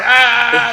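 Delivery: high, loud taunting "Ah"; mocking laugh cry. Training partner jeering after a false apology, mocking cry. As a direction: imitate a rival's jeering cry. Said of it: "just laughing at me".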